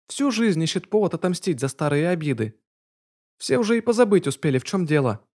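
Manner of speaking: a small house spirit sharing gossip, high; high domovoy girl voice. A narrator's reading. Маша-домовая говорит. (голос маленькой домовушки)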